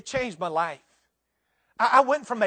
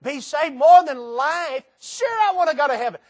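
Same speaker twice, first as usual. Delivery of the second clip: casual churchgoer; 6 semitones higher, 7 dB louder than usual. Retold or imitated. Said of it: "You say".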